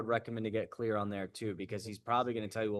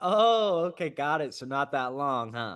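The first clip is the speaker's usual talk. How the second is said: very slow, lighthearted, drawn-out teasing voice; 4 semitones higher, 7 dB louder than usual. Showing how to land a joke in reply to someone, in a playful voice. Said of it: "in a playful voice like that".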